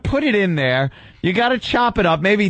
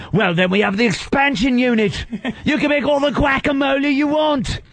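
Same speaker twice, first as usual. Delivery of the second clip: mock infomercial host; 8 semitones higher than usual. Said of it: "obviously actors".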